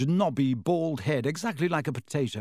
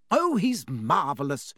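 gushing. Acted. Mrs Weasley gushing over Lockhart.

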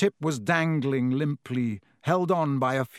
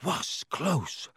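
panting; 5 dB quieter than usual. A narrator's reading. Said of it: "panted Ron".

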